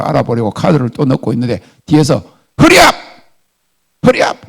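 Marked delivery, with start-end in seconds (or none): 2.6-4.5 high, loud yell from behind; imitated impatient shout. Woman in another line yelling at the customer, imitated loud shout. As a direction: shout it like someone hurrying a stranger. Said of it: "누가 큰 소리를 치고 있는데".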